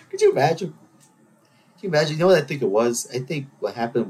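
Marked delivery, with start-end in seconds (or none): 0.7-2.1 slow it down, savoring the picture; slow, wondering repeat of the question; slow, marveling repeat. Shown as a demonstration. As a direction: draw out the repeat slowly. Repeats question, second drawn out.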